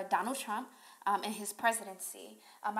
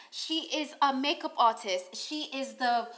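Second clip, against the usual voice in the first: mock British accent; 4 dB louder than usual. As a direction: keep the put-on British accent going. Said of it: "I have to do the accents".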